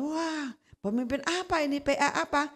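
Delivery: imitating a friend venting furiously about his leader; retold angry rant. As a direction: friend fuming about his pastor, rising to a shout. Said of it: "Wah, dia marah-marah".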